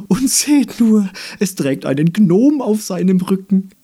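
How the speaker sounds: high, loud jeering flower voice; a spiteful flower pointing at the gnome; mocking flower. (höhnische Blume, hoch und laut)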